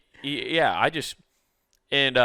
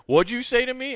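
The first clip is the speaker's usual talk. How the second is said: much higher, louder mock-threatening challenge; a hammed-up tough-guy demand; menacing wrestler; 13 semitones higher, 6 dB louder than usual. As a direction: play the huge senior daring him to repeat it. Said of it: "And he goes".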